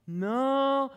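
high, loud, drawn-out mock no; emphatic refusal. Scared sibling told to sleep alone, emphatic refusal. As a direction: plant a big pleading refusal.

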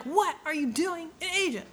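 high-pitched, hammed-up questioning; mock interrogation. Thieves confronting a stranger digging, mock interrogation. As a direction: put on a high voice for a mock grilling.

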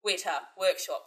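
New Zealand accent. Shown as a demonstration. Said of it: "That's how I get into it".

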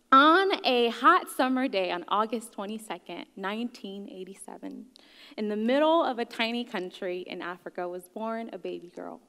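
grand storybook opening, lightly put on; mock storytelling. Speaker teasing the audience with a fake life-story opening, mock storytelling. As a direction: lightly parody a dramatic birth tale. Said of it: "I'm not telling that story".

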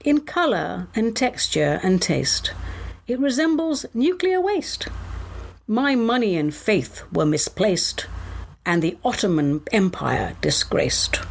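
measured mock-solemn verse reading; poem recital. Host reciting a comic food poem to listeners, mock-solemn verse. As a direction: pause after each rhyming line.

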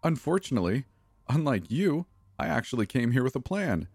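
put-on the girl gloats over her captive; smug Becca. A narrator's reading. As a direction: savour having thought of everything.

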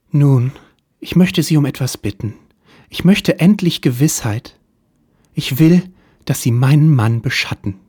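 wealthy client starting her tale; femme fatale voice. Acted. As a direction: play the helpless rich wife.

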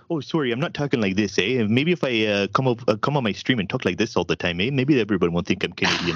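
hammed-up northern Canadian accent. Streamer joking to a Southerner, exaggerated northern Canadian accent. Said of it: "a very northern Canadian".

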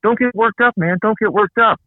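high, condescending calming-down voice; mock placating. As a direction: talk someone down like a child, mockingly. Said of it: "we say".

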